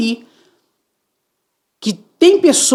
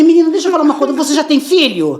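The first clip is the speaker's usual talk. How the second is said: higher, louder heated rant; arguing; 8 semitones higher, 3 dB louder, faster than usual. Retold or imitated. Mother rants at recruiter about raising children.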